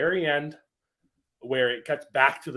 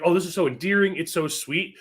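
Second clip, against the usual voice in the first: imitating a delighted viewer, higher voice; really happy; 5 semitones higher, 4 dB louder than usual. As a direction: gush lightly in a raised pitch. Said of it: "He's, like, really happy".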